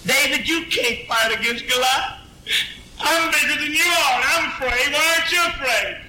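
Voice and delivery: high, pleading voice; frightened brother. Acted. Older brother pleading with David not to fight, high. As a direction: scold him out of your own fear.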